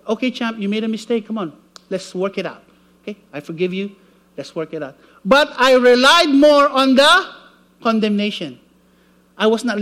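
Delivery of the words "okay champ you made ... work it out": softer, lower reassuring coach; gentle conviction. Retold or imitated. Preacher voices conviction forgiving a mistake, soft and reassuring. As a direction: lift him up kindly, like a patient friend. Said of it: "But conviction is like".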